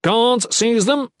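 high, loud, drawn-out command; forceful shouted order; barked order. A narrator's reading. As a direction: call the guards to action. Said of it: "Ethan ordered".

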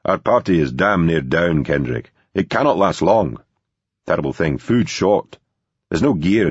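a light hint of a Scottish accent; a touch of Scottish accent, half-voiced; faint Scottish brogue. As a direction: voice him with a faint Scottish lilt. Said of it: "in a faint Scottish brogue".

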